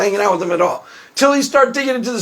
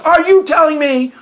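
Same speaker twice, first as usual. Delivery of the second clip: mock indignant challenge, pitched higher; charged question; 5 semitones higher than usual. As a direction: imitate the host loading the question with outrage. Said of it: "charges it up with all this emotional significance".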